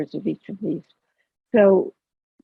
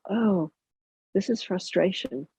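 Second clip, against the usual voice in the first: softly spoken, detached realisation; note your own feeling quietly, with interest; understated, matter-of-fact noticing; neutral, curious; 2 semitones higher, 6 dB quieter, slower than usual. Shown as a demonstration. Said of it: "that is neutral or curious".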